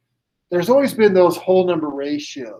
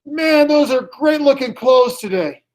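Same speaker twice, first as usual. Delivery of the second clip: lightly voiced compliment from nowhere, higher; mysterious voice; 6 semitones higher than usual. Mystery voice flatters the lone customer, lightly pitched up. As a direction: pitch it up a little, as a bodiless admirer. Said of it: "here comes this voice".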